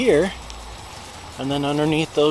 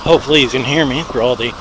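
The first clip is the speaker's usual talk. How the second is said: talking over traffic. Real, not acted. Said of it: "hopefully I'm not shrieking".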